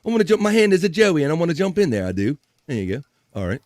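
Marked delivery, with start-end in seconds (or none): 0.1-2.1 silly joey voice. Pretend. Pretends his hand is a joey.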